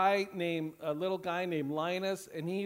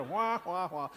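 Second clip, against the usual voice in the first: parents sounded. Retold or imitated. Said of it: "Just like my parents sounded to me".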